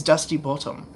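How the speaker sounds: "Bottom" said as "boltum", vowel rounded; accented pronunciation. Shown as a demonstration. Insisting it can't be said otherwise, accented pronunciation. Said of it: "like, accent came from".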